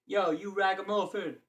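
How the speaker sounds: high mock greeting; lightly voiced goofy slang greeting; playful silly voice. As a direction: toss the word off as a joke. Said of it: "gonna start calling people ragamuffins".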